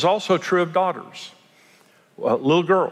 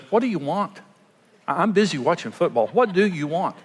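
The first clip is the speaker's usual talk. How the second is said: annoyed brush-off; 3 semitones higher than usual. Shown as a demonstration. Husband busy with football, annoyed at wife. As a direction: snap it out like he's bothered. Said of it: "Rather than a tone that says".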